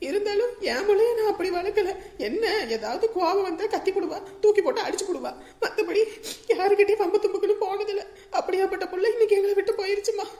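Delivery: mother lamenting through tears; tearful lament. Acted. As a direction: complain brokenly about the daughter who left. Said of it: "அழாதீங்க". (அழுதபடி புலம்பும் தாய்)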